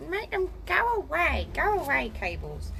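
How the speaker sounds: high, loud mock command to the cables; mock banishing. Ordering the cables to vanish, hammed-up loud command. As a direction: order the cables away in jest.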